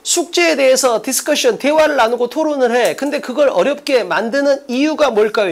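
slowed, phrase-by-phrase model reading; walk through the question unhurriedly; teacher modelling how to read it; deliberate reading demo. Shown as a demonstration. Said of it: "이렇게 읽는 거라고".

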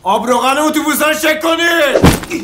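slow bellowed order; shouting. Acted. Employee yelling the boss's order across the garage. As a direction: yell the order from afar.

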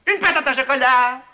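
wailing. Acted. Puppet calls out sadly.

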